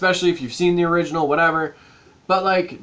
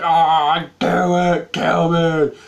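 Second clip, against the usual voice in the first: put-on strained, louder dying girl voice; a hint of a girl with a mangled face; dying girl impression; 2 semitones lower, 3 dB louder, much slower than usual. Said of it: "my impression of a dying girl in a shed".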